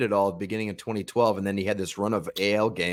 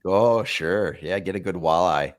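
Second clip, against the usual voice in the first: put-on Minnesota accent; 3 semitones lower than usual. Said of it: "in a Minnesota accent".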